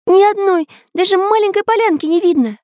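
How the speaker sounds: very high, alarmed little voice; exclamation. A narrator's reading. Karandash finds no clearing to land, high-pitched outcry. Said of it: "воскликнул Карандаш".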